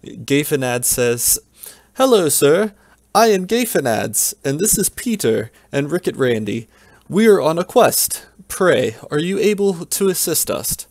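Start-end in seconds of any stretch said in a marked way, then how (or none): 2.0-10.9 high, eager and courtly; high polite hero voice. Acted. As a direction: greet him like a noble squire. Hero greets old knight.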